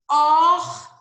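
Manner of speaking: horta popped out high and loud; emphasised word. Shown as a demonstration. Teacher showing the pupils the word horta, said high and loud. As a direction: make horta ring out for the kids.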